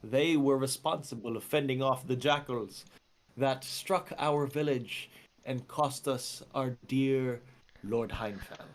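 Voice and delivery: slow, measured butler announcement. Acted. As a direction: announce them slowly and formally as the butler. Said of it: "He says".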